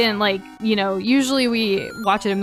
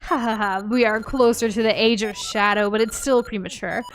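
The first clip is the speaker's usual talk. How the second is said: menacing villain monologue, hammed up.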